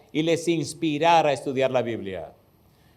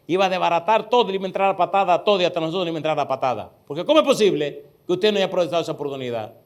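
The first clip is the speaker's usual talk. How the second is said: mock fierce threat; much faster than usual. Student retelling teacher's fierce warning, fast and heated. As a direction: rattle off the threat quickly.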